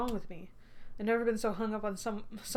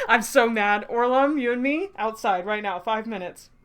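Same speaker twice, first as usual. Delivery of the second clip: mock fury; 7 dB louder than usual. Mock challenge to Orlom.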